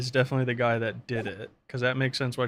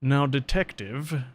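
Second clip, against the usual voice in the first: put-on British accent; slower than usual. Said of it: "now I became British".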